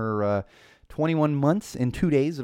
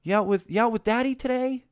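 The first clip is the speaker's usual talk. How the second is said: much higher, sugary mock cashier voice; gushing older cashier; 10 semitones higher than usual. Older checker talking to a toddler out with Daddy, patronizingly delighted. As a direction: coo as if it's a special treat. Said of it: "like it's a special treat".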